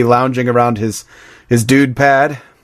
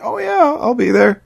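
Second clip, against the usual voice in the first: quoting the Dude; 10 semitones higher, slower than usual. Retold or imitated.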